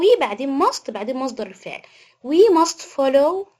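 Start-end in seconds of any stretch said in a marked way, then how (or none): 2.3-3.5 slow dictation. Shown as a demonstration. Teacher dictating example sentence.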